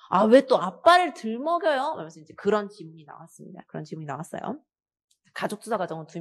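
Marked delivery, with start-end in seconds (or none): 0.1-1.9 annoyed son. Acted. Son protests to mother.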